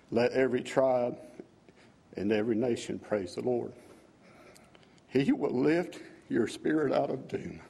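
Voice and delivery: slow, measured reading of a hymn's words; solemn recitation of song lyrics. Acted. Worshipper reading his new hymn to the congregation, slow and reverent. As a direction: read each line like a prayer, drawing it out.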